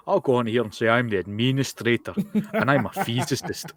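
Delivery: imitating someone's off pronunciation of "administrator"; mock the way he says "administrator"; mock mispronounced accent. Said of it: "there's no U in administrator".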